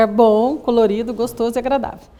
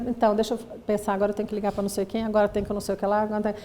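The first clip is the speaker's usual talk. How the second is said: quiet rushed inner monologue, fast; racing distracted thoughts; 3 semitones lower, 8 dB quieter, faster than usual. ADHD husband's thoughts jumping, quiet and fast. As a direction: rattle off the to-do list like a scattered mind.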